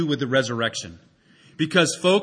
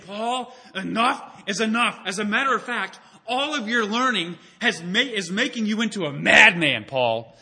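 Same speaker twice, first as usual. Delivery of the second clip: through gritted teeth; 3 semitones higher than usual. Acted. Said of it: "gritting his teeth".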